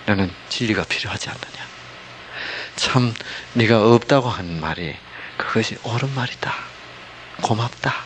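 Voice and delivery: soft, unhurried, agreeing with her; loving sympathy. Shown as a demonstration. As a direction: gently affirm her with long pauses. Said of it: "사랑으로 지금 동조하고 있는 거예요". (사랑으로 공감하듯 나직하게)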